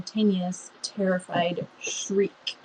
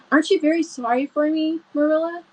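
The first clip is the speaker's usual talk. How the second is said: higher, pitiful plea; injured girl asks for sympathy; plaintive; 7 semitones higher than usual. A narrator's reading. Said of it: "a plaintive voice".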